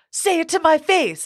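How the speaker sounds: high, drawn-out taunt; mock confrontational challenge. Drunk girl challenging her in retold fight, high slow taunt.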